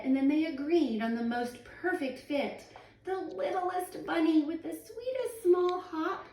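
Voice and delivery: lively read-aloud storyteller voice; story narration. Acted. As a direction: read it to children with bounce. Reading picture book aloud.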